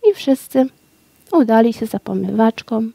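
plain reading voice

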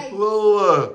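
high, loud drawn-out name; scolding call. Real, not acted. Dog is drinking the bath water, loud scolding call. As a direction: protest loudly at the dog.

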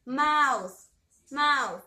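loud model word. Shown as a demonstration. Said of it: "Repeat after me".

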